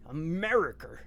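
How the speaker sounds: "America" with a growly, overdone American R; British actor's heavy American accent; growly fake American. Streamer mocking British actors, growly American accent on one word. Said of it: "They get growly and say".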